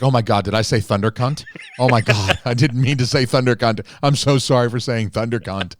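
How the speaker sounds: loud, hammed-up horrified apology; mock frantic apology. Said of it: "And you're like".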